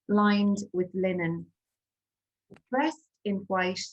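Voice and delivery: measured poem recital with long pauses; poetry reading. Acted. Poet reads her Corpus Christi poem to an audience, measured recital.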